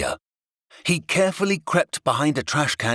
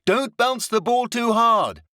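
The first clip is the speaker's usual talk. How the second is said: Lady voice; 9 semitones higher, slower than usual. A narrator's reading. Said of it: "Lady called".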